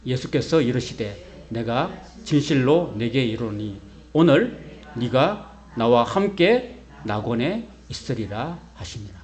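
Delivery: slow, measured recitation of a Bible verse; scripture reading aloud. Shown as a demonstration. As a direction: read it word by word with the congregation, solemnly. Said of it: "같이 한번 읽어볼까요? 시작".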